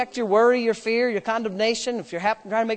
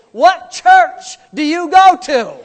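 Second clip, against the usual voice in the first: louder, laughing mock scold; laughing tease; 5 semitones higher, 6 dB louder than usual. Father teases son in the car, laughing. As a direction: scold him through laughter. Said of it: "is what I was saying".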